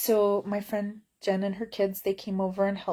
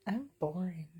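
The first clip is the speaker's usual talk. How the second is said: unvoiced, much softer self-mocking whisper; whispered aside; 7 dB quieter than usual. Real, not acted. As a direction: whisper it to yourself.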